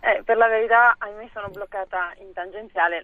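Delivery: hands-free phone call from a car; on speakerphone. Real, not acted. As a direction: talk through a car speakerphone. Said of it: "naturalmente in viva voce".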